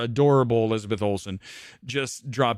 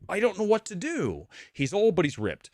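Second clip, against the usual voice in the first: mock haters; slower than usual. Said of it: "they go".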